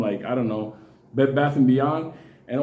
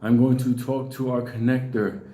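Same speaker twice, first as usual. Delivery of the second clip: mock solemn ritual leader, barely lower; deep voice; 5 semitones lower than usual. Priest at the ritual announcing himself to the crowd, mock deep voice. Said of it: "he's talking with this deep voice".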